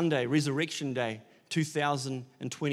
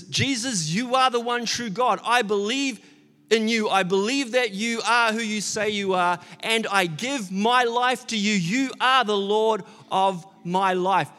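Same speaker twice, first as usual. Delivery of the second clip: fervent declaration; 4 semitones higher, 4 dB louder than usual. Retold or imitated. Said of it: "what Thomas was declaring".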